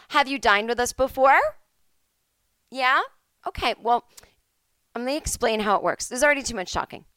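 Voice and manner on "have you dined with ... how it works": overeager. Retold or imitated. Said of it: "We don't have to go".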